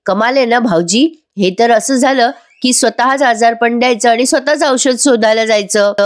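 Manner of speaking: mildly irked sarcastic retort; irritated. Retold or imitated. Daughter-in-law snaps at brother-in-law, mildly irritated. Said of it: "चिडते आणि म्हणते".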